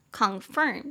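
"Confirm" with stress on "firm"; second-syllable stress. Shown as a demonstration. Teacher demonstrating word stress, "Confirm" stressed on "firm". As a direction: lean on the final "firm" of "Confirm". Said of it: "重音节在第二音节".

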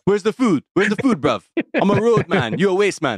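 put-on London roadman accent. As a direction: play a London road man. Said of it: "I'm on Top Boy right now".

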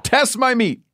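high, punchy show-title announce; announcer hype. Acted.

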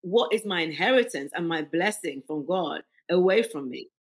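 indignant, with steal drawn out slow and loud; retold anger. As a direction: demand it like defending a birthright, slow and hard on steal. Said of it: "that kind of anger".

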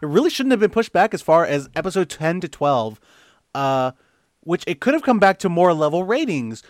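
lightly put-on listener voice with swooping tune; Colt Burr. Co-host reading a listener's question, light impression. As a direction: read it out as a mild impersonation of a confused fan. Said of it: "I'll do my real Colt Burr impression".

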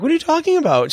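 high-pitched, baffled question; retold bewilderment. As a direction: protest in comic confusion. Retold confused comeback.

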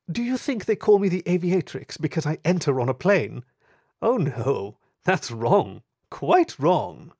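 high, amused, superior taunt; mocking aristocratic lady. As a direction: savour correcting him. Thief taunts the inspector.

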